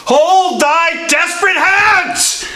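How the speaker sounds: very high, alarmed outcry; urgent cry. Acted. Friar halting a desperate man's hand, urgent cry. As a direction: cry out sharply to stop him.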